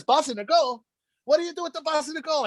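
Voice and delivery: grandfather's voice. Retold or imitated. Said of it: "And he goes".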